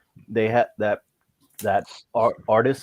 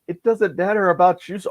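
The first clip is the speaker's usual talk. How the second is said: much higher, louder cartoon-kid protest; exasperated kid; 10 semitones higher, 5 dB louder than usual. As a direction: squeak it out in frustration. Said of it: "He's like".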